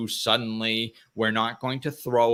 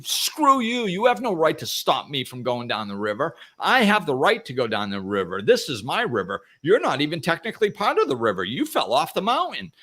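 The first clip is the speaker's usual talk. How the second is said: hammed-up squabbling, higher; mock argument; 5 semitones higher than usual. Water arguing with the rock, mock indignant. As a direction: pick a petty fight, half laughing.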